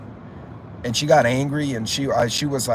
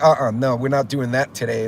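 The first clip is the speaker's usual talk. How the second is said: firm refusal. Retold or imitated. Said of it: "she was just like".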